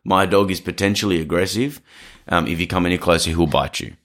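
firm warning. Shown as a demonstration. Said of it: "you put your hand out and you go".

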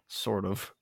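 breathy whispered aside. Real, not acted. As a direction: whisper it under your breath. Aside joke.

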